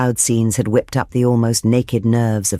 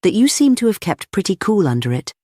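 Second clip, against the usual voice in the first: lifted, rough compliment; high, emphatic note of admiration; brutal admiration; 7 semitones higher than usual. A narrator's reading. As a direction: praise him bluntly. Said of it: "not without a sort of brutal admiration".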